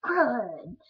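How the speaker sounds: put-on trying out a five-year-old's curse; five-year-old self. Shown as a demonstration. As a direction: exclaim it like a little kid. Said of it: "Five-year-old".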